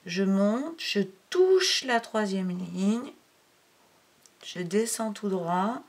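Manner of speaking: slow, stretched words tracing a stroke; drawn-out demonstration. Shown as a demonstration. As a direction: draw out each move as you write it. Parole calée sur le tracé. (lentement, en suivant le geste d'écriture)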